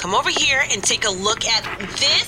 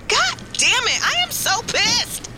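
pissed off; 10 semitones higher than usual. Acted. Angry about catered sushi.

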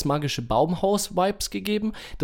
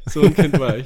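a hammed-up excited child, louder; mock excited kid; 9 dB louder than usual. Shown as a demonstration. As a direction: act out the hyper child you were. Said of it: "repeats line, louder and far".

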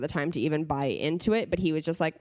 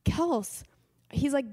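higher and slowed with disbelief; floored husband; 7 semitones higher than usual. Retold or imitated. Husband telling careful Kels he is floored, disbelieving. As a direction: lightly voice the husband, astonished. Husband's shocked reaction retold.

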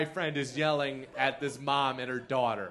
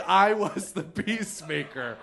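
laughing repeat. Retold or imitated. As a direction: say it again, laughing at yourself. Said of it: "I screamed".

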